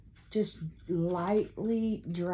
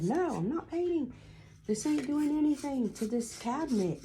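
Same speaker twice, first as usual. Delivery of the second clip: higher-pitched, mildly exasperated retelling; mock mad husband; 9 semitones higher than usual. Wife retelling husband's painting complaint, mild mock frustration. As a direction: imitate the husband's protest, lightly. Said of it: "he got so mad".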